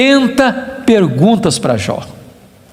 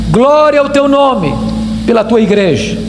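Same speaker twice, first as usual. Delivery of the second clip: prayer; 4 semitones lower than usual. Real, not acted. Preacher praising God before the congregation, solemn prayer. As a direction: pray aloud, falling low at each close.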